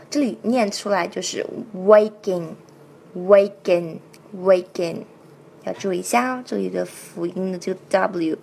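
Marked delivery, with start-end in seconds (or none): 1.7-5.0 "waking" opening on a round-lipped "w"; rounded W demo. Shown as a demonstration. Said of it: "Waking的W是个元唇音". (“waking”圆唇发W)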